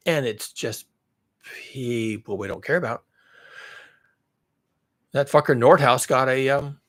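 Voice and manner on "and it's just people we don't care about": mocking economist voice. Voicing complacent economists mockingly.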